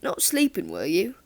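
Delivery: teasing Liverpudlian lilt, rising on not sleeping; hint of a gruff Liverpool teacher; Liverpudlian accent. Teacher teasing a drowsy pupil, light Liverpudlian accent. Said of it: "A gruff, Liverpudlian accent".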